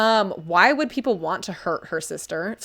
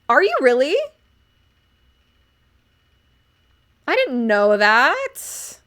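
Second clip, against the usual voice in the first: reading a chat message; 4 semitones higher, 5 dB louder than usual. Retold or imitated. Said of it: "Mithrid wrote".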